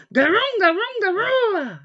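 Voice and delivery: loud, high monster chant; monster growl. Acted. Tommy scaring his friend Jeannie, loud monster chant. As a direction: jump out and scare her.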